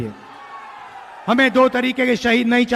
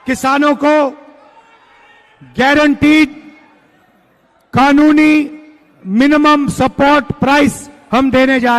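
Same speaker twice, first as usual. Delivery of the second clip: rousing rally shout; 4 semitones higher than usual. Real, not acted. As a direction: proclaim it to the crowd, building. Rally speech, promise to farmers.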